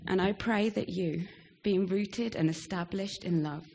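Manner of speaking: measured, deliberate reading with firm openings and pauses; scripture reading. Acted. Departing member reads favourite passage to church, scripture reading. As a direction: read it out solemnly, phrase by phrase.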